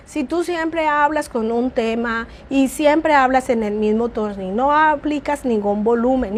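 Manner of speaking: same flat tone throughout, no volume change; monotone. Shown as a demonstration. Teacher showing students a dull, unchanging voice. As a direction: drone on like a boring teacher. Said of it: "¿Viste la diferencia?".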